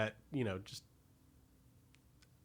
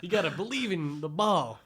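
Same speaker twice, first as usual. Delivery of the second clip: quoting Mister T, laughing; laughing while imitating; laughing through it; slower than usual.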